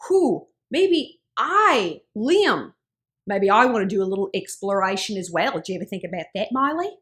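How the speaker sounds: imitating Liam in a put-on Australian accent; laid-back Australian bloke accent, Liam style. Imitating Liam musing to Miley in an Australian accent. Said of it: "I could do this accent all day".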